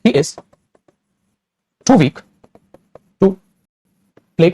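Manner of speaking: very slow, word by word, leaning on "too"; slow dictation. Shown as a demonstration. Teacher dictates the example sentence slowly, word by word. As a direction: dictate it slowly so students can write. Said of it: "जैसे मैंने बोल दिया".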